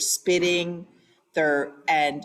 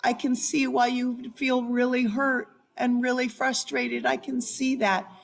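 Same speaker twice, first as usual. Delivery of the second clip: soothing mirror; 4 semitones higher than usual. Shown as a demonstration. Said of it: "you match and mirror".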